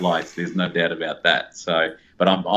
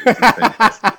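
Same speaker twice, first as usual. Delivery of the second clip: excited praise; 8 dB louder than usual. Real, not acted. Guest praising host's accent, laughing.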